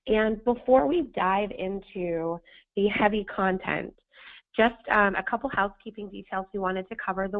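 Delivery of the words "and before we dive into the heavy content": hoarse, scratchy sandpaper voice. Real, not acted. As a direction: push through a hoarse, sandpaper throat. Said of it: "I sound like sandpaper today".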